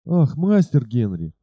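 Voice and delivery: a slow, mildly despairing "Ах, мастер Генри"; ashamed robber chief begging his master, slow despair; despairing cry. Acted. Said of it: "вскричал он отчаянным голосом".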